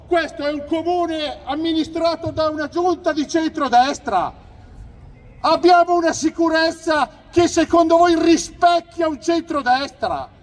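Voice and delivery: loud rally speech from the stage; booming political rally oratory; booming balcony speech. Real, not acted. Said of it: "scatenato sul palco".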